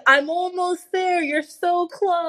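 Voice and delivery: slow teasing bedroom voice; seductive voice. Acted.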